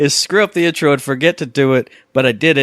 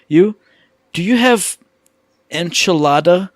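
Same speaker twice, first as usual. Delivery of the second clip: mocking a nervous friend; 3 semitones higher than usual. Mimicking friend ordering nervously.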